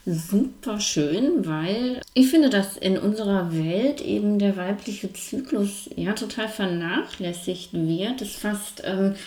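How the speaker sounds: mumbling through a wired jaw; talking with the teeth clamped together; jaw wired shut. Real, not acted. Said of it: "warum ich jetzt so ein bisschen nuschelig klinge". (mit verdrahtetem Kiefer genuschelt)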